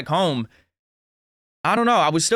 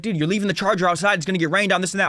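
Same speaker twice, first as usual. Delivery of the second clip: higher-pitched mock complaint; upset dad; 4 semitones higher, faster than usual. Dad warning the charger will get rained on, upset. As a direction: imitate an exasperated dad. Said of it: "he's getting upset".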